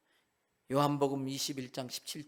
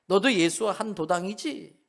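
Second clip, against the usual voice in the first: corner him like a hostile crowd member; accusing bystander; 3 semitones higher, 6 dB louder than usual. Retold or imitated. Bystander confronting Peter, loud accusing voice.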